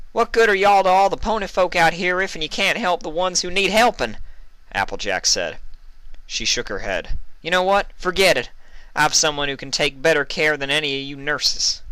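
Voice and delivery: high, loud scolding; indignant Applejack. Acted. Applejack scolds the nurses, loud and indignant. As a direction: tell them off and storm away.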